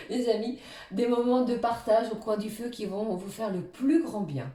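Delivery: giggling through the words after a slip; laughing at herself. Real, not acted. Tarot reader laughing at her own English accent. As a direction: laugh it off and carry on. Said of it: "excusez-moi au bout d'une heure trois".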